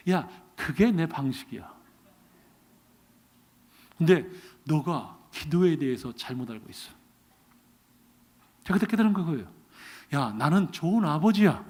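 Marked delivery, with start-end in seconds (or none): 0.1-6.9 God's voice. Retold or imitated. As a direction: speak down calmly as the father. God answers the pastor.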